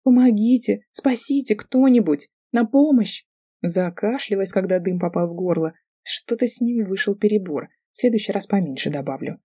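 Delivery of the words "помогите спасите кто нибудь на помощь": high, loud fake cries for help; girl faking a dying plea for rescue, hammed-up wail; pitiful wailing. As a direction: wail like she's dying, hamming it up. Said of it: "жалобно завопила, старательно кося под умирающую".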